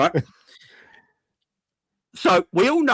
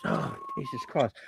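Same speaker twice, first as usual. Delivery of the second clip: shocked squeal; 10 dB quieter than usual. Acted. Horrified exclamation.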